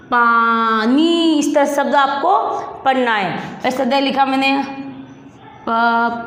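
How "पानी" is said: drawn-out पानी, each syllable held long. Shown as a demonstration. Teacher sounding out a word for pupils, syllable by syllable. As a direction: stretch पानी slowly as पा...नी. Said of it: "क्या हो गया?".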